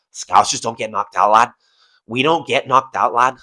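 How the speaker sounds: rough mock-Scouse, dropped low; Paddy Pimblett accent. Host echoing a fighter's boast, low mock-Scouse accent. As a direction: slip into a half-convincing Scouse impression. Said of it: "I can't do my Paddy Pimblett accent".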